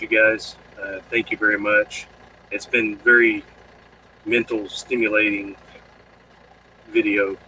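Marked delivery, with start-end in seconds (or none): 2.5-7.4 tired late-night stumble over words; stuttering. Real, not acted. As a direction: trip over the words, sleepy. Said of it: "I'm stuttering because it's almost midnight".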